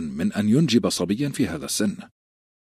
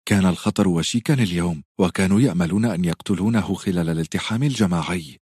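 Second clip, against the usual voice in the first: whip-sharp tone. Acted. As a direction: lash each word like a whip. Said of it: "نبرة أخرى لاذعة كالصياط".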